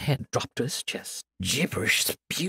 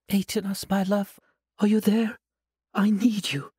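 sweet, higher and innocent; angel voice; 7 semitones higher, 4 dB louder than usual. Acted. Sorceress faking an angel's voice to lure her captive, sweetly. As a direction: coax him like a gentle angel. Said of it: "with the voice of an angel, soft and comforting".

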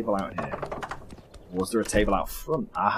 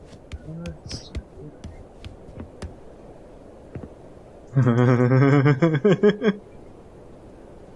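whispered laugh; 5 semitones higher, 5 dB louder than usual. Real, not acted. Laughs while watching the woman.

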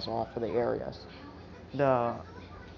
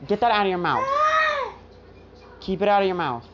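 higher, louder scolding command; stern order; 6 semitones higher, 4 dB louder, faster than usual. Retold or imitated. Telling Midoriya to keep it out of his mouth, loud stern scolding. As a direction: snap it like a strict order.

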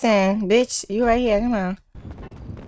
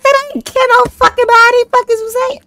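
retold angry yell. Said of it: "I said".

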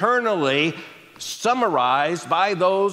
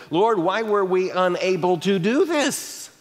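sheepish question; 3 semitones higher than usual. Retold or imitated. Disciples asking Jesus after their failure, sheepish. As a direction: ask it slowly, embarrassed to ask. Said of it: "imagine how sheepishly you would have to ask".

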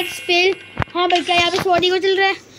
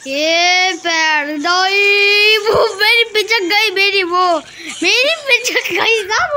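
mock wailing; 3 semitones higher, 3 dB louder, much slower than usual. Real, not acted. Gamer moaning as his bird gets crushed, slow wail. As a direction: wail over your squashed bird.

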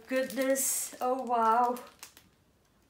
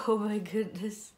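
whisper; 3 semitones lower than usual. Real, not acted. Amazed at doll's boots.

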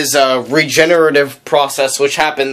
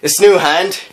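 put-on southern accent. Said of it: "he says it in a southern accent".

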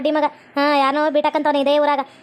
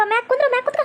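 coaxing; 6 semitones higher, faster than usual. Acted. Coaxing boy to sit up.

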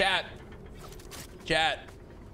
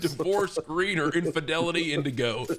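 lightly voiced car-commercial pitch; hint of an advert voiceover; parody ad announcer. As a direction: read it as a mock truck ad.

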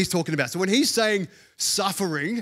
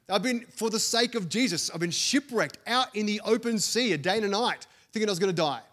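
higher-pitched, earnest acted protest; impassioned protest; 4 semitones higher than usual. Preacher voices Paul answering whether he was just inconvenienced, impassioned. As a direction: plead the case as Paul, pitched up.

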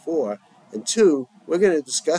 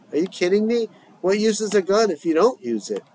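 heated disbelief; 8 semitones higher than usual. Acted. Heated gun debate.

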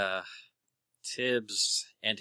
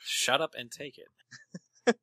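loud, slow, desperate offer; eager shout; 5 semitones higher, 8 dB louder, much slower than usual. Acted. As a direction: shout it out, begging to pay. Eager player buys drugs.

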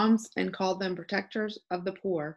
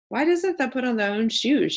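higher and louder, astonished; surprised question; 6 semitones higher, 6 dB louder than usual. A narrator's reading. Martha surprised when Mary holds out her foot, astonished. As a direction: ask it in plain disbelief.

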